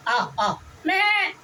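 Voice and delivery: high, slow, drawn-out mock bleat; goat bleating. Munshi shows raja how goats bleat, slow high bleat. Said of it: "आवाज़ दे रही मगर आ नहीं रही है".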